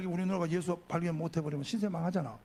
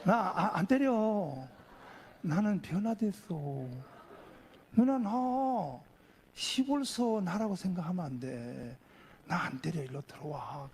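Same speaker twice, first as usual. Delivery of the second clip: slow, drawn-out coaxing; gentle, lingering plea, softening at the end; smiling reassurance; 2 semitones lower, slower than usual. Retold or imitated. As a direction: reassure a scared sister with a smile. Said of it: "웃으면서".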